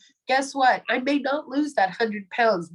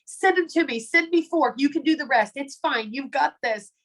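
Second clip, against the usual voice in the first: retold reassurance; 4 semitones higher than usual. Friend takes over, reassures frazzled texter.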